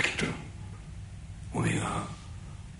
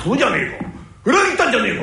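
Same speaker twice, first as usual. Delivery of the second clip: angry; 5 semitones higher, 6 dB louder, much faster than usual. Acted. Angry accusation of betrayal.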